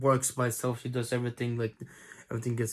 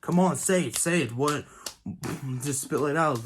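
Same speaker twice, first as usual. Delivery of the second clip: impatient boss. Retold or imitated. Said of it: "boss gets more aggravated".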